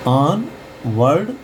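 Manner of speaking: ऑन वर्ड as "AAN ... vard"; open AA reading. Shown as a demonstration. Teacher repeats the word before its meaning, ऑन वर्ड as aan-vard. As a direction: open aa in ऑन, short vowel in वर्ड. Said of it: "पढ़ेंगे".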